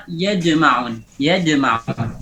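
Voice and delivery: "Yajma'un" with a d creeping into the j; jim blended with dal. Shown as a demonstration. Teacher gives example of the fault, d-like jim. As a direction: tint the j of "Yajma'un" with d. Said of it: "khaltu sawtiha bid dal".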